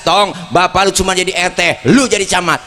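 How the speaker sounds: a touch of a firm father lecturing his son; mildly stern, pushing the boy; firm old-school father. Retold or imitated. Old-school father telling his son to surpass him, mildly stern. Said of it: "orang tua dulu tegas".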